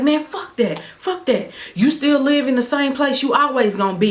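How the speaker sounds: high sneering voice for the ex; ex's insult. Retold or imitated. Ex mocks where she lives, high sneering voice.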